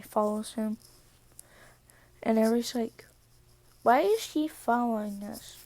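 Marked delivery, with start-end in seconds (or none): 3.8-5.6 a hint of a cute little kid; lightly voiced small child asking. Eri asking Deku about Katsumi, light hint of a kid voice. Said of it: "Doing that cute little kid voice".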